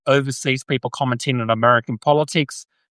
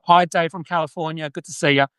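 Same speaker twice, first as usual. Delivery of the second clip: lightly attempted old-school Southern accent; a hint of old-school American formality in the accent; 3 semitones higher than usual. Shown as a demonstration. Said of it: "trying to do that, like, formal".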